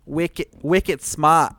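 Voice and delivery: lightly put-on Boston accent on wicket; mock Boston accent. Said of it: "are you from Boston?".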